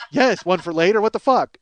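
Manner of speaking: mock exasperated outburst; loud, incredulous inner yell. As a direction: blurt it in comic frustration. Inner exasperated reaction acted out.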